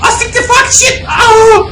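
high slow angry shout; frustrated swearing. Real, not acted. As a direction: spit out the curses in frustration. Frustrated at dying in game. (sinirle yüksek sesli küfür)

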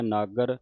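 ਨਾਗਰ with a tight, held g; ਨਾਗਰ with a doubled g; tightened consonant. Shown as a demonstration. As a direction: press on the g of ਨਾਗਰ, as nag-gar. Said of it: "ਅਦਕ ਲਾ ਕੇ ਕੱਸ ਕੇ ਬੋਲਣਾ ਹੈ".

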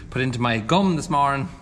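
speaking with numbed gums; slightly slurred numb face; numb from the dentist. Real, not acted. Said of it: "I can't feel my face whatsoever".

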